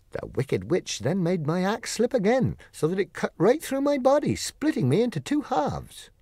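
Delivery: lightly voiced Tin Woodman, earnest storytelling; a hint of the tin man recounting his losses; Tin Woodman telling his tale. Tin Woodman recounts his misfortunes to Dorothy, lightly voiced.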